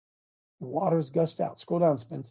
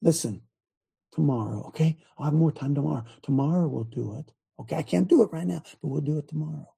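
reassuring grandpa; 3 semitones lower than usual. Retold or imitated. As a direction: gently put them off till tomorrow. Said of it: "Do you know what I said?".

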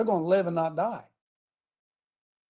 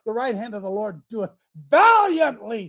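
louder, more emphatic reading; emphatic repeat; 3 semitones higher, 5 dB louder than usual. Shown as a demonstration. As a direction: proclaim it the second time. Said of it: "Said it again".

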